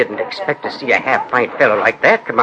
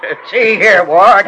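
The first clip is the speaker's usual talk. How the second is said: indignant objection; 6 semitones higher, 7 dB louder, slower than usual. Acted. Parson's friend objects to the mocking.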